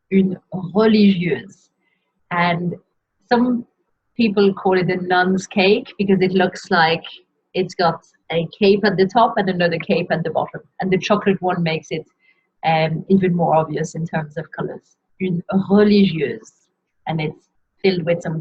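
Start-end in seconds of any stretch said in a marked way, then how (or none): 0.1-1.7 slow, careful French "Une religieuse"; pronunciation model. Shown as a demonstration. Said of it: "keep pronouncing and repeating as you hear me say them". 15.2-16.7 "Une religieuse" said slowly in French; pronunciation model. Shown as a demonstration. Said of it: "keep pronouncing and repeating as you hear me say them".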